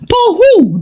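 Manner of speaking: sharp, high question; surprised question. A narrator's reading. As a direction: ask it with surprise.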